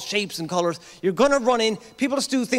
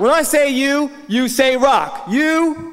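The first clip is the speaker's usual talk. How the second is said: loud, high hype-man calls; crowd call-and-response shout; 6 semitones higher, 5 dB louder, slower than usual. Real, not acted. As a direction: pump the room up, shouting the cue.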